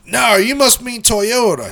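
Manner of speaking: high, drawn-out imitated holler; mock yelling back. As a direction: mimic a husband hollering back from outside. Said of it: "they start yelling back and forth".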